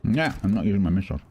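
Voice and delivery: talking while chewing; mouth full. Real, not acted. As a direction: say it through a crunchy snack. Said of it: "Excuse the crunching".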